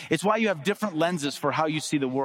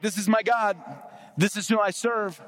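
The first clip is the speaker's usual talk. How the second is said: proud, higher-pitched boast; raised-pitch boast, proudly declared; bragging; 4 semitones higher than usual. Retold or imitated. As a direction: imitate David bragging on his God. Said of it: "David's bragging on him".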